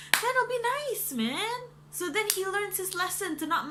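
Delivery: high, light wishful tone; dreamy wish. Real, not acted. Reviewer imagining a better ending, high and wishful. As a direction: savour the ending you wanted. Happy daydream.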